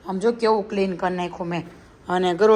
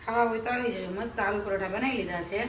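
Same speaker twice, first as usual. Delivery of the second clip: soft echo; 7 dB quieter than usual. Acted. Mother softly echoes the invitation.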